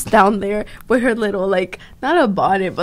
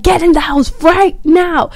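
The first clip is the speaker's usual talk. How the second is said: higher, pushed command like a retold angry father; imitating the dad barking an order, a bit raised; mock dad order; 7 semitones higher, 4 dB louder than usual. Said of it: "And he, like, screaming".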